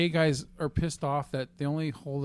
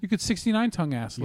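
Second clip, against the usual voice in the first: ordinary talk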